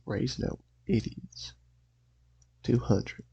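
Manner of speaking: stubborn haggling in an attempted Southern accent; lightly put-on Southern accent, digging in on price. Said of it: "I'm gonna attempt a southern accent".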